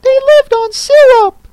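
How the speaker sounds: very high, loud squeak; squeaky squirrel. Acted. Squirrel answering Alice in a loud squeak. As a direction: pipe up brightly after thinking. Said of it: "after thinking a minute or two".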